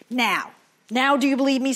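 fast, loud boastful witch; witch taunting. Acted. Witch boasting to Nisam after her spell, fast and loud. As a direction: crow at him with triumph. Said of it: "said the witch".

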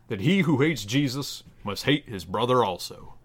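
measured, solemn Bible reading; scripture reading. Acted. Reading a parody Bible passage to listeners, solemn scripture voice. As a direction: read it like a pulpit lesson.

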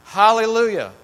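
high, loud hallelujah; ringing high cry of praise; joyful shout. Acted. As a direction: shout it like a heavenly crowd. Multitude crying out hallelujah.

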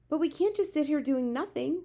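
high, loud protest; crying out. A narrator's reading. Sophie urges the giant to act, crying out. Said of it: "Sophie cried".

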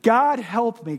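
a ghost begging God; anguished cry. Acted. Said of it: "cries the ghost".

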